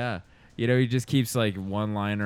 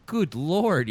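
mock shock; 7 semitones higher, 3 dB louder than usual. Family reacting shocked.

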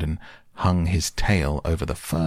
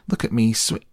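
squeaky Roo voice; 5 semitones higher than usual. Acted.

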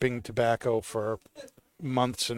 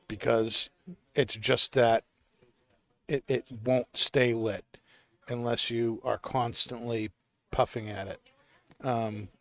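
talking around a pipe in mouth; words slurred by a pipe in mouth. Real, not acted. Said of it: "I'm gonna have to light my pipe again".

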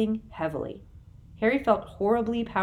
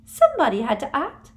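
breathed; 8 semitones higher, 9 dB louder than usual. A narrator's reading. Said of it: "breathed Umbridge".

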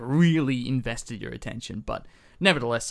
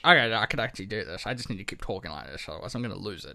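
speaking through the teeth, softer; talking through teeth; 3 semitones lower, 4 dB quieter than usual. Shown as a demonstration. Trying the co-host's tip, softer talk through teeth. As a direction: clench the teeth and keep talking. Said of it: "I'm gonna talk like this".

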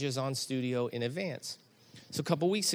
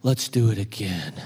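put-on eager kid; 6 semitones lower, 5 dB louder than usual. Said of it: "he goes".

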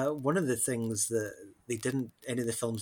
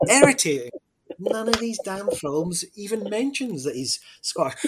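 irritated; 8 semitones higher, 6 dB louder than usual. Real, not acted.

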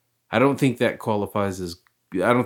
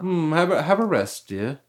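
high, mock-genteel British accent; posh British in-law; 8 semitones higher than usual. Playing along as the in-laws, put-on British accent.

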